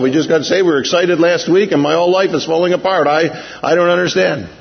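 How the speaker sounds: imitating a worried believer's lament; panicked Israelite. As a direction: play the frightened new believer, pleading. Preacher voicing panicked Israelites.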